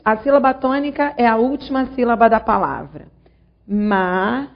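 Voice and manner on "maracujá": Maracujá split into ma, ra, cu, já with long pauses; Maracujá in four separate, measured beats; syllable by syllable. Shown as a demonstration. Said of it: "vou dividir as sílabas da palavra".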